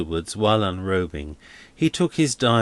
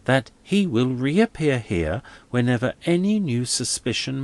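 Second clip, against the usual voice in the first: a lightly higher, pleading canon; earnest young clergyman; 6 semitones higher than usual. Acted. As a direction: press his case politely but anxiously. Narrator voices Crisparkle's pleading.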